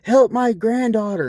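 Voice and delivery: very high mocking whine; mock old lady. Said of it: "I'm like".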